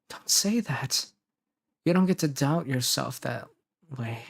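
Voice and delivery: earnest acted comforting; insistent, tender audio-drama partner; reassuring partner. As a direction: reassure a loved one with measured pauses. Voice actor records comforting lines.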